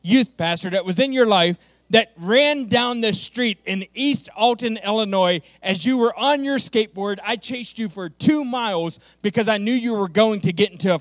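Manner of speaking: urgent appeal. Retold or imitated. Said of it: "I said".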